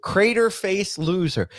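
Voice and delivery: loud, high furious insult; angry yell. Real, not acted. Insulting rival in heated rant.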